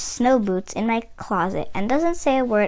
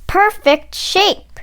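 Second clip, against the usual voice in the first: awed delight; 6 semitones higher, much slower than usual. Acted. Child admiring shoes in store.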